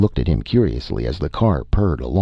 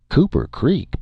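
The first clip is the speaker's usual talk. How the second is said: higher-pitched doubting question; puzzled echo; 11 semitones higher than usual. A narrator's reading. Local boy questioning where the stranger is from, puzzled. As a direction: echo the town's name in disbelief.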